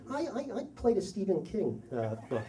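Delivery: halting, stammered admission; sheepish confession, retold. Dad confesses to boy's father, retold sheepish stammer. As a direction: start high and soft, stumble downward.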